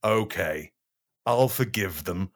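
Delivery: sulky Jesus gives in, mild snarl. Acted. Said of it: "snarled Jesus".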